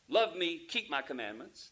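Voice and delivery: barked as a direct order; commanding. Shown as a demonstration. Preacher contrasting a gentle request with a command, stern order. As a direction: make it a flat command. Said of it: "That would be a command".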